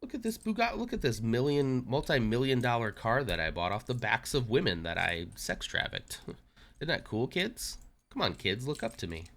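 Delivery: high, smug boasting mock Tate voice; mock Andrew Tate. Streamer mocking Tate to chat, in a smug high mock voice. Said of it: "pretending to be Tate".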